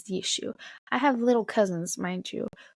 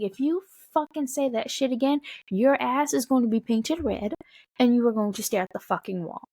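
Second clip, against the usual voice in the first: raised-pitch retold threat, emphatic; stern telling-off; 4 semitones higher than usual. Adult scolding a cussing young cousin, retold stern threat. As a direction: lay down the law without fully yelling. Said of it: "I am gonna yell at you like an adult".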